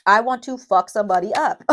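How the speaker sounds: real anger. Real, not acted. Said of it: "I'm serious".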